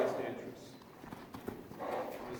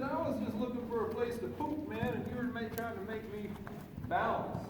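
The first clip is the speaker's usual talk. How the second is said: lightly voiced horse, higher and quick; voicing the horse; 5 semitones higher, 3 dB quieter than usual. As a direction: speak for the horse with a light mock whine. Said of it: "He said".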